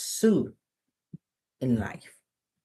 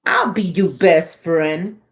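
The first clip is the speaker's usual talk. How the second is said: slow, louder coaxing; wheedling pigeon; 7 dB louder than usual. Acted. Pigeon coaxing the reader to be friends. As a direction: sweet-talk the listener slowly.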